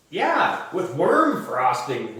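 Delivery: high, eager yeah; gleefully gross kid; excited kid. Acted.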